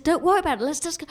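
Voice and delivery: high, placating reassurance; coaxing, lightly mimicked; trying to be nice. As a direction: imitate a partner brushing worries away. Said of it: "trying to be really nice to me".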